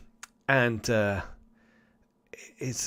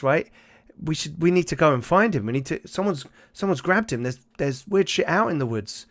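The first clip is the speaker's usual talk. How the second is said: frantic; 5 semitones higher than usual. Acted. Father demands guns for search.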